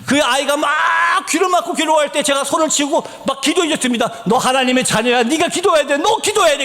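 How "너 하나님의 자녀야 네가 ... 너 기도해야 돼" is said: insistent, climbing in pitch; retold urgent exhortation. Missionary urging the afflicted child to pray, retold insistence. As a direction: press the command harder each time.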